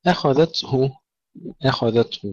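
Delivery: أخذته with thick خ, light hamza and dhal; only kha heavy. Shown as a demonstration. Teacher modelling for students, heavy kha alone in أخذته. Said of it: "الخاء فقط مفخمة".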